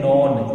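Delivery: नॉन with a long open 'aw' vowel; mispronounced none. Retold or imitated. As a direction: say नॉन, rhyming with 'on'. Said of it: "कुछ students इसको wrongly pronounce करते हैं". (नॉन, लंबे 'ऑ' के साथ गलत उच्चारण)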